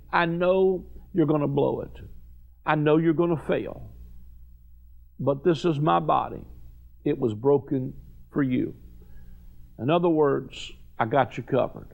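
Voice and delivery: a hint of a tender, forgiving Jesus. Preacher voices Jesus to Peter.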